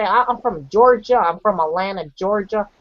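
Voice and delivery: lightly imitated American accent from Georgia. Phoning people from Georgia, local American accent. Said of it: "they would believe me, like I was from".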